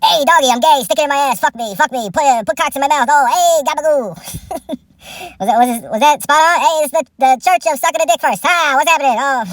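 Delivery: a lightly voiced brash New York comic; loose, crude mock Joey Diaz voice; Joey Diaz impression. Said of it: "Here's my impression of Joey Coco Diaz".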